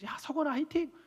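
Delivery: high cheerful call of encouragement; bright church-hallway cheer. Retold or imitated. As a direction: shout him on like a proud elder. Elders cheering him at church.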